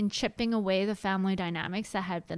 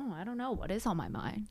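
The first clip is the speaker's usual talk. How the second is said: pondering; 7 dB quieter, faster than usual. Acted. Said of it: "makes you really go".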